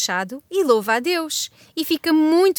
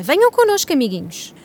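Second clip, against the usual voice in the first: excited invitation; 2 semitones higher, 4 dB louder than usual. Acted. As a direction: call them along with excitement. Hosts excitedly invite the children.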